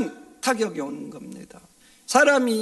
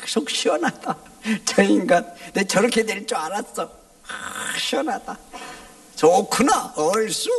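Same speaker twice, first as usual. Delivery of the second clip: gloating glee. Retold or imitated. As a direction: crow with delight over his fall. Enemies clapping, cackling in glee. (신나서 고소해하는 조롱)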